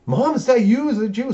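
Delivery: high-pitched, rising frantic questions; mock freaking out. Monica waking to see her mother, mock freaking out. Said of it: "Starts freaking out".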